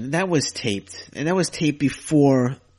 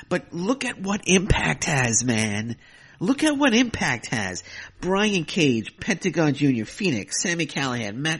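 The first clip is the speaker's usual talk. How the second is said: excited boast; 4 semitones higher than usual. Real, not acted. Proudly listing roster.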